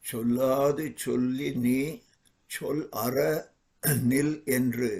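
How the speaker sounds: fast, rhythmic recital of the Tamil verse; Tamil verse recitation. Acted. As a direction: rattle off the verse as a chant.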